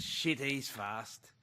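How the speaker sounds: a hint of a strong Aussie accent, mock yelled; imitating an Aussie yell. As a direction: retell the Aussie coach's shout in a light Aussie accent. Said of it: "Justin Langer yelling out. There's a strong Aussie accent".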